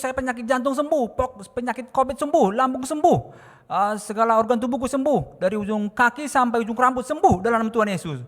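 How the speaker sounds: loud, high, insistent healing cries; high-pitched yelled prayer; re-enacted prayer shout. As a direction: shout each healing like a command. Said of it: "Kamar mandi teriak".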